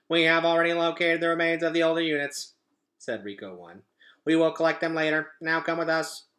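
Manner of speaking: flat, fast machine monotone; robot voice. Acted. Robot ordering Roz onto the airship, cold machine voice.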